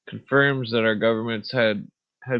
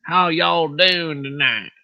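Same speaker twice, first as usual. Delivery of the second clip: slow, higher, louder Southern country drawl; 6 semitones higher, 5 dB louder, slower than usual. Pretend. Greeting viewers in a hammed-up country voice. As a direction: stretch it out like a country showman. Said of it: "that's my country voice".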